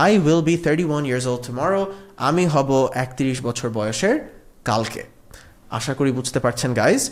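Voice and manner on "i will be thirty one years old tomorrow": slow, clear teacher model; slow dictation pace; slow model sentence. Shown as a demonstration. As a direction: spell it out slowly for learners. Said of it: "teacher models sentence slowly".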